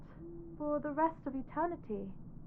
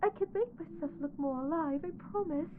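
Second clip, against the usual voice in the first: tearful pleading. Acted. Bride begs hiding groom, close to tears. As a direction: promise through a catching voice. Bride begging not to be hideous.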